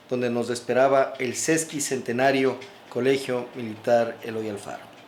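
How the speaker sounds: measured, projected read-aloud of a memoir; story narration. Real, not acted. Author reads his cadet memoir to viewers, story narration. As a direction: narrate it with deliberate phrasing, each phrase set apart.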